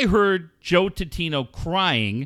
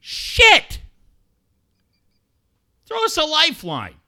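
high, loud hammed-up plea to Joe; pretend desperate plea; 13 semitones higher, 5 dB louder than usual. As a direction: cry out as if the boat were sinking. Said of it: "I would have said".

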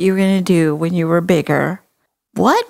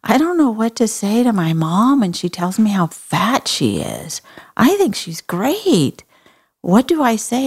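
voicing a child; 4 semitones higher than usual. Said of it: "fifth grader ... raise her hand and say".

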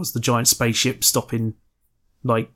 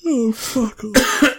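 laughing squeal; 11 semitones higher, much slower than usual. Real, not acted. Laughing reaction to teasing.

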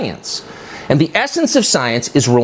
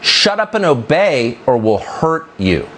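slow, deliberate warning; mock threat; slower than usual. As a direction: spell out the threat, word by slow word. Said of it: "what she's really saying is".

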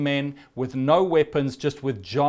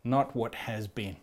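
gentle invitation; 3 semitones lower, slower than usual. Acted. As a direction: coax them gently forward. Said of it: "and saying".

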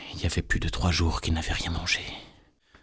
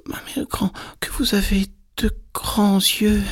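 put-on astonished little girl; 13 semitones higher than usual. A narrator's reading. Red Riding Hood astonished at grandmother's eyes, very high voice. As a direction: build from breathy to high amazement.

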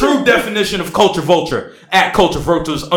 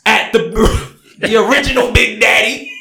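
mock passion; 6 semitones higher than usual. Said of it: "I need more dramatics".

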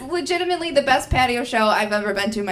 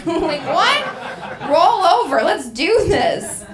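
laughing; 5 semitones higher, 3 dB louder, much slower than usual. Retold or imitated. Eager reply, laughing.

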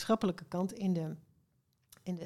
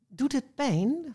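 slow, higher-pitched concerned question; worried; 5 semitones higher, 4 dB louder, slower than usual. A narrator's reading. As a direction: ask it with mild storybook worry. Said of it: "vroeg Isidor bezorgd".

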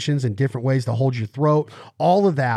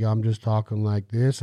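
lightly voiced low, laid-back singer impression; a country singer; 3 semitones lower than usual. Explaining goose voices, a light low-voiced impression. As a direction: drop the voice a little, like a deep-voiced singer. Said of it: "you got the Josh Turner".

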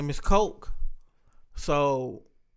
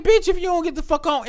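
mock dismissive order; 12 semitones higher than usual.

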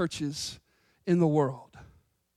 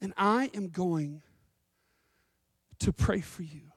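soft, lower, unhurried reassurance with long pauses; gentle Jesus; 4 semitones lower, 6 dB quieter than usual. Acted. Jesus promising Peter he will pray, gently reassuring. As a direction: quietly promise your help to a friend. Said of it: "And he says, "Peter".

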